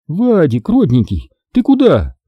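high offended auntie calling out; aggrieved auntie cry, pitched well up; hurt call. A narrator's reading. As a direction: call after him, hurt and shrill-high. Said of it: "обиженно прокричала тётя Тася".

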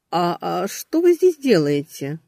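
slow, stammering surprise; startled. Acted. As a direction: caught off guard, stumbling. Startled to see boss.

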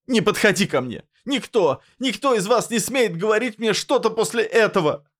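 high screaming rage; furious shout. A narrator's reading. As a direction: drive them back with a scream. Mila backing away, screaming.

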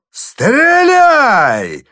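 loud, hoarse bellow from above; old man daring him to shoot, roaring hoarsely. A narrator's reading. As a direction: roar the dare down. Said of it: "хриплый голос".

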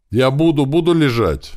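a bound man yelping in fear; frightened cry. Acted. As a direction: cry out in panic at the knife. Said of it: "попытался крикнуть Антошка".

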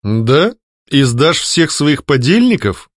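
slow, mildly ironic question. A narrator's reading. Head of the secret chancellery mocking the ghost, mildly ironic. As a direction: needle the ghost. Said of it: "с иронией поинтересовался".

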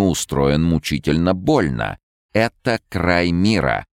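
high, loud stern gypsy; fortune teller. Acted. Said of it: "Рона говорила".

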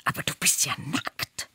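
aghast, airy mock cry; appalled, half-whispered exclamation; horrified cry. A narrator's reading. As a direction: horror without volume. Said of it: "schrie der Nackte entsetzt zurück".

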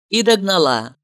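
usual speaking voice

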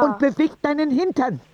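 rough, bossy granny voice; gruff old woman. Acted. Oma Rosa tells the boy off, gruff. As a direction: snap at the boy like a tough old lady.

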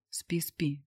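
soft hushing pillow talk; whisper. A narrator's reading. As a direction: lull her back to sleep softly. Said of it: "прошептал я". (шёпотом)

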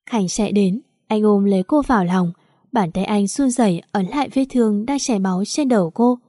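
ordinary delivery

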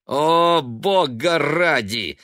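loud, slow contemptuous scoff. A narrator's reading. Son scoffing at his mother's prophecy. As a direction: scoff at her with a snort. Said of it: "с презрительным смешком".

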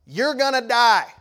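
acted urgent bullhorn warning; bullhorn shout. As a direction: holler down from a helicopter. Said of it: "they take the bullhorn out".

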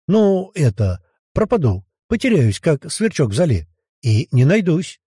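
forcing words out, voice quivering; voice trembling with strain. Acted. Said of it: "дрожащим от напряжения голосом". (дрожащий от напряжения голос)

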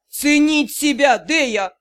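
growled. Acted. Drow growls his lesson at Dei, angry. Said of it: "прорычал Дроу".

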